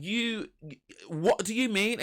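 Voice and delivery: high-pitched acted disbelief; retold incredulous challenge. Woman to partner in a row, high acted incredulity. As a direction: demand an explanation, pitched right up.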